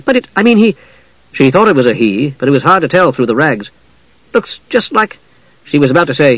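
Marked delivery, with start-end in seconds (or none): 0.0-0.8 put-on high, hesitant girl's voice; awkward, halting higher pitch; lame faltering. A narrator's reading. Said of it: "she finished lamely". 4.3-5.2 lame faltering. A narrator's reading. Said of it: "she finished lamely".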